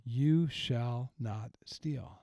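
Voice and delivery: very slow, gentle reading as a promise. Retold or imitated. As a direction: savour "You shall not steal" slowly like good news. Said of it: "he saw it as a promise".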